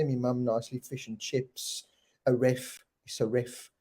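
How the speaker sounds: British accent, said softly. Shown as a demonstration. Host showing which words he can say, British accent. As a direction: show off a few British phrases. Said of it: "I can say those kind of things in the British accent".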